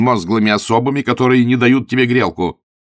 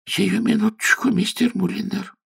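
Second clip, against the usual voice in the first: meek landlady; 13 semitones higher than usual. Acted. Landlady meekly promises her tenant, very high. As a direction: promise it eagerly.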